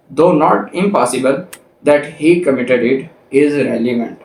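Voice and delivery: reading the law aloud slowly, word by word; slow statute reading. Acted. Lecturer reading the statute to law students, slow and deliberate. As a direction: dictate each clause so students can follow. Reads illustration text slowly.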